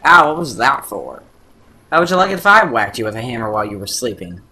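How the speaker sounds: loud, fast, offended complaint; a woken paint can snapping back; indignant paint can. Acted. Paint can hit while sleeping, loud indignant.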